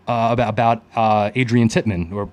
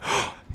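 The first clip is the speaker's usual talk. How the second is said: short, softer gasp of surprise; re-enacted excited intake of breath; startled gasp; 8 dB quieter than usual. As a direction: gasp as if suddenly perking up. Re-enacts his head popping up.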